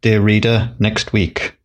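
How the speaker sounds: put-on old radio serial sign-off; 1950s serial announcer. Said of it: "You almost sounded like a nineteen fifties serial announcer then".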